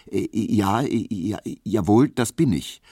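verlegen stotternd, mit Äh-Pausen; gestottert. A narrator's reading. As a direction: ein erschrockener Gehilfe ringt um Worte. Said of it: "stotterte Emil Kubinke". (leicht gespieltes, nervöses Stottern)

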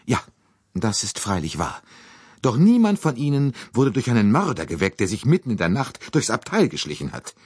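high, put-upon lady; indignant fussy lady. Acted. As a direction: grumble like an aggrieved matron. Mrs Hubbard voiced.

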